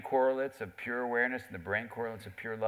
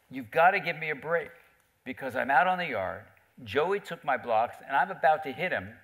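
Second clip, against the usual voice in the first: put-on urgent little boy; 4 semitones higher, 6 dB louder than usual. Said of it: "Billy comes to her and says".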